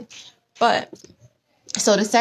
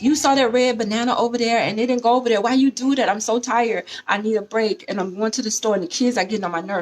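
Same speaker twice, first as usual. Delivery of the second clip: whining wife; 3 semitones higher, faster than usual. Retold or imitated. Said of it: "because you whining".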